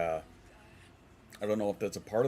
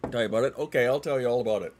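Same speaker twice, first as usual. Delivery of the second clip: mock exasperated; 4 semitones higher, 8 dB louder, faster than usual. Exasperated answer to chat question.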